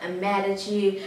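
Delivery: slow, sulky retold refusal; play-acted pout, words stretched out; mock pouting. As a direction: lightly imitate a stubborn sulk. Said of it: "and pouting".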